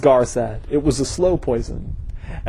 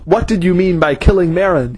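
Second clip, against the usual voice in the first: higher, pressing accusation; yelled; 4 semitones higher than usual. Acted. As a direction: demand an answer, voice raised. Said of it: "he yelled".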